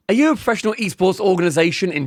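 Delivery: lightly performed commercial read. Acted. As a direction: deliver it as a sponsor pitch. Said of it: "do it in an ad read".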